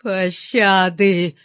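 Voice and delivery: протяжная мольба со стоном; растяни слово, как стон; стон жертвы. A narrator's reading. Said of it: "простонала жертва". (протяжно, жалобно стеная)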